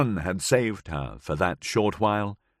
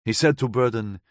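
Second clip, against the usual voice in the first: put-on light foreign accent, woman recounting; Gabriella's voice; 4 semitones higher than usual. Gabriella tells the narrator of that night, lightly accented.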